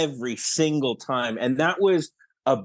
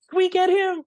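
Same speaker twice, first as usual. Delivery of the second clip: much higher, hushed-in-awe style question without dropping volume; retold amazed question. Film team wondering about landing Colin Mochrie, amazed. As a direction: ask it in high-pitched, hopeful disbelief. Retelling team's excited casting question.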